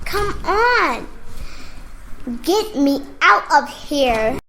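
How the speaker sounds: panicked cry to escape; desperate yell. Acted. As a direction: yell to get out of this place.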